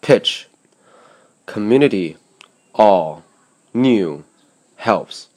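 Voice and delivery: each word lifted on its stressed syllable, clearly set apart; teacher reading the key words one at a time; stressed words said alone. Shown as a demonstration. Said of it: "请细心分辨以上加重标记的词汇中的重音音节的音调".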